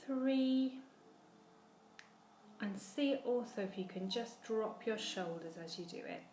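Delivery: softly spoken cues between sustained counts; guided breathing. Real, not acted. Teacher counting again for the class, guided breathing. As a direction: pace the breaths calmly, long silences between counts.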